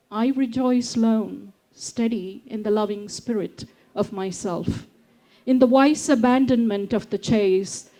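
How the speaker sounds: unhurried recital of a reflective poem; poetry reading. Acted. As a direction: read it like your own poem to an audience. Reads her own poem aloud.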